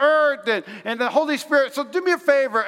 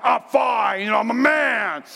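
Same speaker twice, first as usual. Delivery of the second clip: proud shout. Retold or imitated. Husband insists he is fine.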